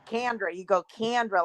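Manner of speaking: CANDRA with a short a as in can; imitated Southern "Candra"; Southern pronunciation. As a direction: say Candra like can, not Ken. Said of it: "I just love the way you say".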